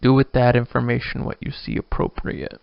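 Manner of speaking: hint of a Boston accent, Woody Allen style; lightly Woody Allen as if visiting Boston. Real, not acted. Host signing off a thought, in a slight Boston accent. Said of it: "I sound like I'm imitating".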